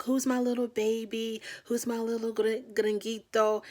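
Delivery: sing-song mock baby voice at her boyfriend; baby talk. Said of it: "his baby talk or his baby voice".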